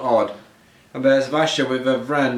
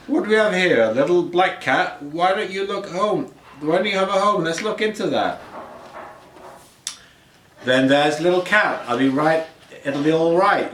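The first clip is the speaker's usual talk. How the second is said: lightly voiced, higher, gentle old lady; kindly old woman; 5 semitones higher than usual. Old woman welcomes the stray cat, lightly voiced and gentle. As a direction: coo kindly at a lost kitten.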